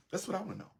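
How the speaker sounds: pitched high, pressing the question; high insistent repeat. Real, not acted. Speaker pressing the audience for an answer, high and insistent. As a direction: throw it up high, demanding an answer.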